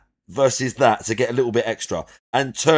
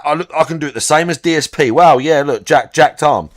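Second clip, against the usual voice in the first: mock boast; 4 dB louder than usual. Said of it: "when Mark One looks like that".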